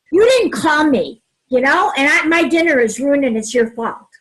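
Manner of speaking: loud, blaming, pitch up; accusing complaint. Shown as a demonstration. Partner home late, demo of blaming them, loud and accusing. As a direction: throw the blame at them. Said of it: "Instead of saying".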